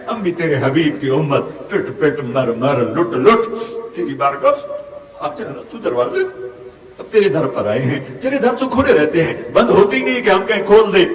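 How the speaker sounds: pleading with God through tears; a broken voice begging, sobs catching the words; sobbing dua; weeping prayer. Real, not acted.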